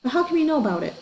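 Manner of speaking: high, suspicious question. A narrator's reading. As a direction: probe with doubt.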